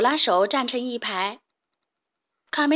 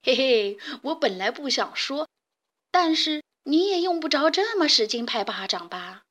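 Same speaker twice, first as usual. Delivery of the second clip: laughing; 2 semitones higher than usual. Acted. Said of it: "大嗓门儿笑着说".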